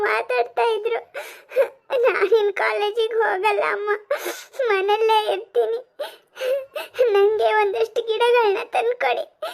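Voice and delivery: a daughter sobbing out her story; crying girl. Acted. Sadhana tells her mother she was bullied, crying. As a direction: tell it through tears.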